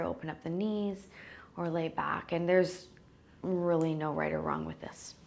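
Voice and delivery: unhurried calming voice with long pauses; guided meditation. Real, not acted. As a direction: ease them gently into rest. Settles listeners into the meditation.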